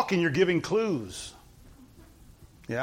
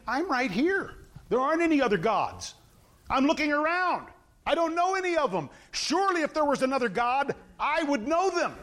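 higher-pitched mock bafflement; sarcastic; 6 semitones higher than usual. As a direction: protest with feigned puzzlement, pitched up. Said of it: "That is sarcasm".

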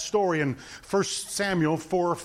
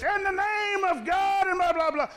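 pompous summons; 11 semitones higher than usual. Retold or imitated. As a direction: boom it out self-importantly. Second captain's pompous summons.

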